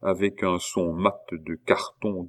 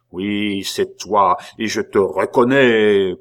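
denunciation swelling to a loud cry; prophetic transport; 7 dB louder, slower than usual. A narrator's reading. Abbé recognising the culprit, in prophetic fervour. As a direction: proclaim it like an inspired prophet. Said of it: "dans un transport de divination".

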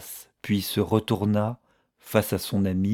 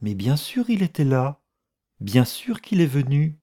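higher, puzzled insistence; surprised at being doubted, pitched up; clear, astonished voice; 6 semitones higher than usual. A narrator's reading. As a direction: answer in open astonishment, voice lifting. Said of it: "La voix de missus Annesley s'éclaircit, plein d'étonnement".

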